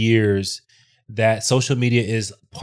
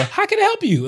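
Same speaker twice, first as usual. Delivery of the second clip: super high, eager-to-please helper voice; customer service voice. Retold or imitated. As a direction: pitch it way up to sound likable. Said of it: "Like, your voice goes super high".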